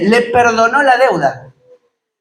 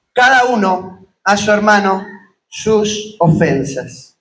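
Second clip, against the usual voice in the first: scripture reading. Acted. Preacher reading the parable of the debtor to his congregation, measured reading voice. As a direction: read the parable steadily to the congregation. Preacher reads Matthew 18 aloud.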